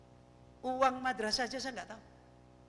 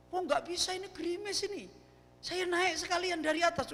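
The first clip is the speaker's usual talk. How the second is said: higher, stubborn passenger refusing; insistent passenger; 9 semitones higher than usual. Retold or imitated. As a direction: act out the passenger who won't wait in the drizzle. Passenger refuses, voiced in story. (penumpang yang ngotot, suaranya dinaikkan)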